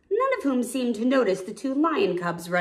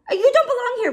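Rafiki voice; 6 dB louder, much faster than usual. Acted. Rafiki speaking.

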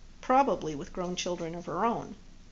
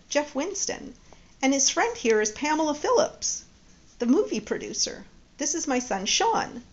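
lightly voiced Judy; 4 semitones higher, 4 dB louder than usual. Judy introduces Jeff to son.

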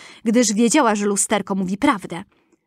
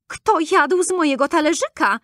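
second dwarf asking; 6 semitones higher than usual. A narrator's reading.

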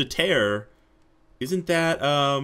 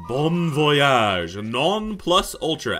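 high, slow know-it-all narrator voice; pompous guide; 3 semitones higher, 5 dB louder, much slower than usual. Acted. Guide telling the player what comes next, pompous and high. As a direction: lord it over the player as the smug guide.

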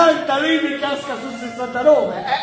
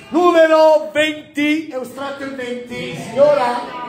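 bingo caller. Real, not acted. Calls tombola numbers.

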